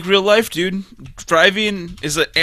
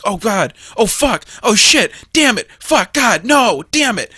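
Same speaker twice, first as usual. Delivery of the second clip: mock string of slipped-out swears; exasperated swearing; 4 semitones higher than usual. Showing how swears keep slipping out, exasperated. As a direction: run of quick falling curses, pitched up. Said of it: "I just slip it in there".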